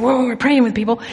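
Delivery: understated sheepish reply; mildly sheepish retold answer; embarrassed admission. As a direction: own up to it with slight embarrassment. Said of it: "I was embarrassed to admit it".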